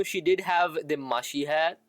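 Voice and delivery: ordinary talk, nothing marked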